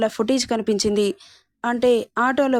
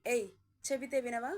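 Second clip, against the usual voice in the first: angry snap; 15 dB quieter than usual. A narrator's reading. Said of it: "వాడికి కోపం వచ్చి". (కోపంతో కొంచెం గట్టిగా)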